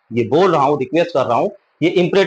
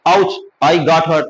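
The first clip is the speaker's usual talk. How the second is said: mock pained ouch; much slower than usual. Shown as a demonstration. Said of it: "तो बोलते हैं ना".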